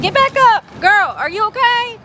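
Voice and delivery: high, loud mock-worried fussing; alarmed fussing. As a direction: fuss over the fallen bag like a friend who fell. Talking to the fallen bag.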